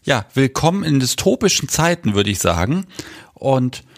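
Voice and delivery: lisping from a bitten tongue; slushy s sounds, sore tongue. Real, not acted. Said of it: "heute lispele ich hier".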